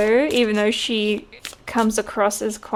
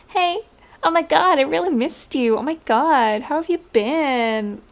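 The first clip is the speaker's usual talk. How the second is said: high, gushing fake-excited greeting; lightly mocking, sugary reunion gush; insincere gushing; 4 semitones higher than usual. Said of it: "girls talking crap who are completely insincere".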